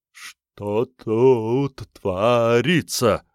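very slow, stuttering speech; labored stutter. A narrator's reading. Scarred stuttering instructor asks what's going on, struggling with words. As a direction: force each word out with effort. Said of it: "с трудом выговаривая слова".

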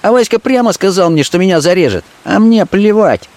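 high scornful woman's voice; a street girl scoffing at the threat; Fenka contemptuous. Acted. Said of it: "окончила она с презрением".

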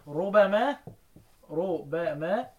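ربما as "ru-ba-mā", b kept light. Shown as a demonstration. Teacher shows students the lightened reading, light b in ربما. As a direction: say ربما with a single, undoubled b. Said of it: "يعني اقرأها بالتخفيف".

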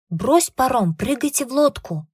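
loud urgent command; shouted order. Acted. Rescuer orders them into the boat, loud urgent shout. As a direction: bark the order over the wind.

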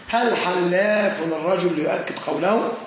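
slow, careful question read aloud; slow example reading. Shown as a demonstration. Teacher presenting the exam example to students, slow and careful. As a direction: spell out the example question for the class. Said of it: "يقول".

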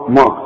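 ما with a dark back vowel; wrong heavy mim. Shown as a demonstration. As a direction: show ما over-thickened. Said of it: "لا". (ما بتفخيم الميم غلط)

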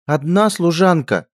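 high, slow, loud huffing scorn; indignant snort. A narrator's reading. Princess huffing at the lackey, high slow scorn. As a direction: huff it out in disbelief. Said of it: "фыркнула принцесса".

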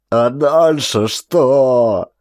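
slow, despairing; crushed voice. A narrator's reading. Despairing soldier asks the corporal, crushed. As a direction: ask it utterly defeated. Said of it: "Убитым голосом проговорил Хейкеля".

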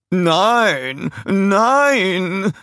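high, loud, stretched-out protest; alarmed shout. A narrator's reading. Royal adviser objecting to the handover, alarmed shout. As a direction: cry out to stop them. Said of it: "schrie er".

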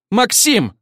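high, loud exploding outcry; outburst. Acted. Обе девушки взрываются криком на Максима. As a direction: burst out at him together. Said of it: "в унисон взорвались обе".

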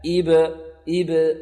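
"إب" with a short neutral bounce on b; clean qalqala. Shown as a demonstration. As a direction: release the b of "إب" without adding a vowel. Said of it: "طرف المخرج". (قلقلة "إب" بلا حركة)

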